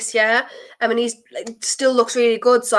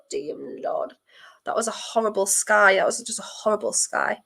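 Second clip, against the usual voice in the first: nervous whisper; 7 dB quieter than usual. Real, not acted. Fan dreading a miss whispers to herself, nervous. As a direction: barely breathe the words.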